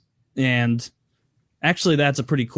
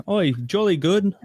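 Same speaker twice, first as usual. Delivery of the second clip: mock British accent; 4 semitones higher than usual. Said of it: "Is that supposed to be British or Australian".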